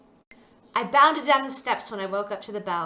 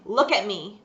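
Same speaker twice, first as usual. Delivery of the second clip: stern; 4 dB louder than usual. Acted. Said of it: "He said sternly".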